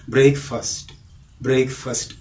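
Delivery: "ബ്രേക്ക്ഫാസ്റ്റ്" ending in short "fust"; short vowel in the last syllable of "ബ്രേക്ക്ഫാസ്റ്റ്", as in first aid; half-corrected pronunciation. Shown as a demonstration. Teacher fixing the second part, said brayk-fust. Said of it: "ഫസ്റ്റ് എയ്ഡ് എന്ന് നമ്മൾ പറയാറില്ലേ".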